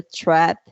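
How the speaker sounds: "trap" with a vowel between Spanish A and E. Shown as a demonstration. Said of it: "una mezcla entre la A y la E".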